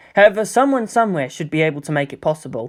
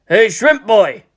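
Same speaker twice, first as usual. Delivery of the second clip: mocking call; 5 semitones higher, 5 dB louder, slower than usual. Bully calls out to Shinji.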